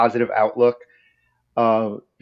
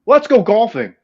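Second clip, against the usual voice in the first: high, loud goofy catchphrase impression; a celebrity DJ; 13 semitones higher, 4 dB louder, faster than usual. Retelling a stranger joining the airport joke, high goofy holler. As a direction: holler it high like a silly celebrity. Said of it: "I said a stupid celebrity DJ thing".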